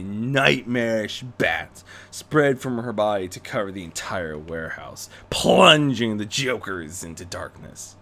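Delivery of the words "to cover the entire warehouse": whisper. A narrator's reading. Dramatic narration.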